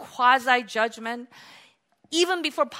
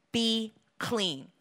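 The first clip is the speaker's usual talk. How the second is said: hushed, measured order; quiet command; 5 dB quieter than usual. Acted. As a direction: command it gently, without raising the voice. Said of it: "He commanded".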